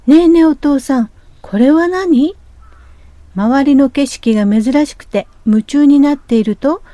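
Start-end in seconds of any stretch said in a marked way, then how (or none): 0.1-2.4 put-on eager child.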